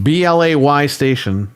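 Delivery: "B L A Y Station", letter by letter; mockingly spelled "B L A Y Station"; spelling out mispronunciation. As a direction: spell the odd "B L A Y Station" deliberately. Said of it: "That's how Dreamcast guy says PlayStation".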